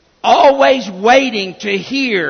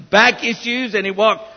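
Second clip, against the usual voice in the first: laughing. Real, not acted. Jokes about hunched teacher.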